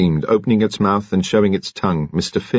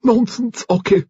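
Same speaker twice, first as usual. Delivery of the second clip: high, imperious dismissal; sharp rejoinder. A narrator's reading. Lady Lacklander dismissing Mister Finn's plea, sharply imperious. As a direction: brush him off at a raised pitch. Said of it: "she rejoined".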